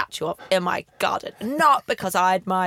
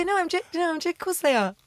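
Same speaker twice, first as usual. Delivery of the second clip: flustered laugh; 8 semitones higher than usual. Retold or imitated. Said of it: "I just go".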